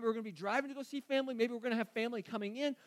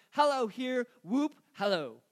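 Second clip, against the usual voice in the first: mildly hammed-up Scrooge hollering hello; lightly acted giddy greeting; playful whoop; 5 dB louder than usual. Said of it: "Just don't go, whoop, hello".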